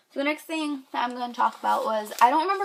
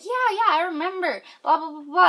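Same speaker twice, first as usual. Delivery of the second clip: imitating him; 7 semitones higher, 5 dB louder than usual. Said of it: "and he was like".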